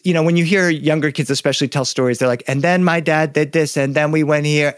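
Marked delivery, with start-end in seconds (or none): 2.5-4.7 imitating a child's monotone storytelling; lightly mocked monotone recount; kids' monotone. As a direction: recite it on one level note, like a young kid. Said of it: "they just speak on a monotone".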